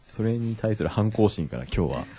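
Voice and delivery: a hint of suave radio host; put-on cool voice. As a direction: try lightly for a cool low DJ tone. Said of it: "今日はかっこいい声で".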